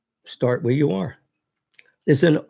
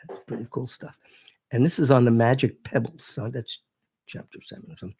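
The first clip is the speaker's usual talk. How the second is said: drifting away from the microphone; turned away from mic; 4 dB quieter than usual. Real, not acted. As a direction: voice fades off the mic. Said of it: "now you're off mic".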